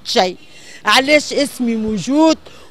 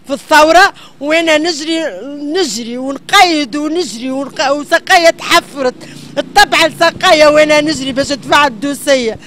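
angry crying; 3 semitones higher, 3 dB louder than usual. Real, not acted. Woman describes running around distressed.

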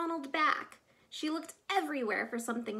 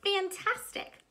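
mild cheer; 7 semitones higher than usual. Acted. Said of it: "Elizabeth shouted".

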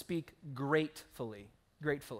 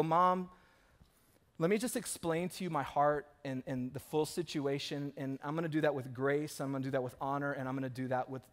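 softer, lower patient explanation; gracious and gentle; 4 semitones lower, 5 dB quieter than usual. Pretend. Pastor modeling how to speak to mom, soft and gracious. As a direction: reason with her kindly, with grace. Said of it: "Rather, you go".

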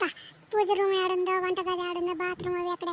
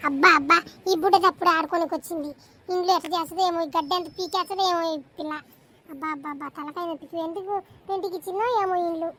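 grumbling landlady. Acted. Landlady complaining about the new tenant's child, weary grumble. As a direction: sigh out each abba like a fed-up old owner.

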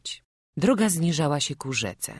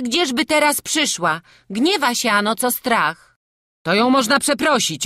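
loud, higher, insistent peasant voices; gossiping village folk; 6 semitones higher, 8 dB louder than usual. Acted. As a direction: argue about the devil, eager and sure. Superstitious guests argue.

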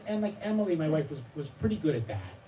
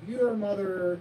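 mock psychoanalyst; 9 semitones higher, 6 dB louder, much slower than usual. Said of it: "They'd be like".

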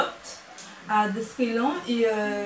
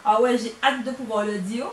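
laughing. Retold or imitated. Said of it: "je me suis dit".

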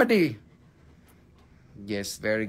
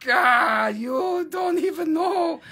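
exasperated shout; 5 semitones higher, much slower than usual. Real, not acted. Host answers a viewer asking if he ever gets mad, shouting. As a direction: blow up in mock exasperation. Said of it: "Are you ever mad?".

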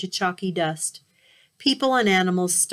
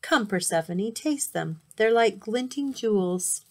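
coaxing; 3 semitones higher than usual. Acted. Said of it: "he coaxed".

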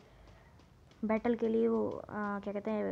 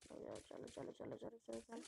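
whispering; 12 dB quieter, slower than usual. Real, not acted. Sneaking up, urging teammates.

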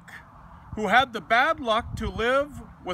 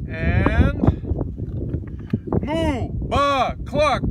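animal noises; much slower than usual. Acted. Animals wake the farmer.

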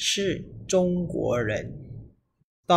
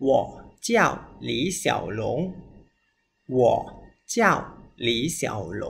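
slow word-by-word; faster than usual. Shown as a demonstration. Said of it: "หนึ่ง สอง สาม".

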